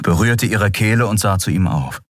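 ordinary delivery

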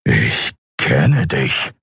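very slow, grave statement; slow deliberate. A narrator's reading. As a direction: lay it down calmly, word by word. Kai confronts Kero. (langsam und bedeutungsvoll)

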